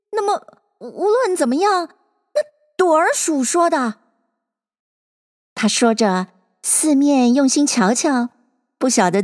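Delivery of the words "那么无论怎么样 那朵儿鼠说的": nervous hatter. A narrator's reading.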